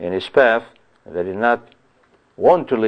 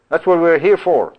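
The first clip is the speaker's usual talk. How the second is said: much higher, scornful blurt of food; mock crowd voice; 6 semitones higher than usual. Preacher voicing the crowd who only want bread, scornful mock. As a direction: mimic the greedy crowd.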